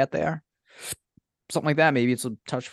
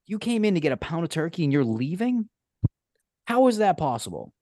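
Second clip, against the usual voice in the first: pitched-up, disbelieving question; incredulous mock question; 8 semitones higher than usual. Mocking a customer's small deli order, high and incredulous. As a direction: ask it as if the order is absurd.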